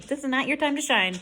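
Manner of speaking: ordinary delivery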